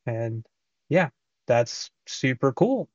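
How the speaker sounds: through wireless earbud mic; recorded on earbud microphone; Pulse Explore earbud mic. Real, not acted. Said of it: "this is a test of the microphone on the PlayStation Pulse Explore wireless".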